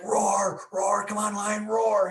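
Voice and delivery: put-on boy at the zoo yelling at the lion to roar; kid yelling. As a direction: egg the lion on like an excited seven-year-old. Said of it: "he's yelling at the lion".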